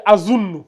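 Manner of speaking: "azunnu" opened on a short a, double n held; the corrected take, "azunnu" starting with a; corrected reading azunnu. Shown as a demonstration. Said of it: "C'est pas ou, c'est a".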